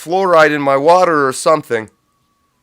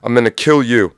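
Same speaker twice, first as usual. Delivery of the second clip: Clint Eastwood threat; 3 dB louder than usual. Retold or imitated. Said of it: "I'm like Clint Eastwood at the end of Unforgiven".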